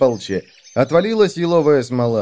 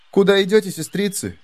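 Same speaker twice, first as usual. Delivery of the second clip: put-on bright girl voice; 8 semitones higher than usual. Heroine asks the maidens.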